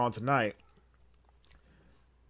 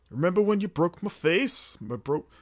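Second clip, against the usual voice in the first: higher, botched Irish woman's voice; bad female Irish accent; 5 semitones higher than usual. Second try at wrestler confronting her rival, faltering Irish accent. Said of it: "do a female voice with an Irish accent".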